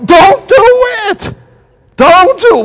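high, loud warning cry; yell of warning. Retold or imitated. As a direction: shout it out to stop the story. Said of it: "we wanna almost yell".

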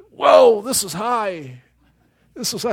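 high yelp, then drawn-out nervous unease; frightened father. Acted. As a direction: act out someone scared of heights. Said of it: "I saw my father afraid of heights".

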